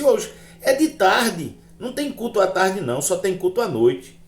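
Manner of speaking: high-pitched, insistent correction; objecting wife. Retold or imitated. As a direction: imitate a wife arguing back. Wife objects to his going.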